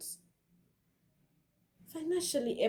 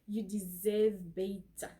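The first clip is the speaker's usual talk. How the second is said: South African accent; 2 semitones lower, slower than usual. Shown as a demonstration. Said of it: "In a South African accent".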